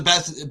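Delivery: "best" with a lisped final s; lisped slip. Real, not acted. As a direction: let the s in "best" slide into a th. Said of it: "my lisp really got strong there".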